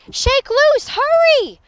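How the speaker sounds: high, frantic encouragement; loud rallying cries; shouting. A narrator's reading. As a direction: yell urgent help upward. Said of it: "the prairie dog shouted".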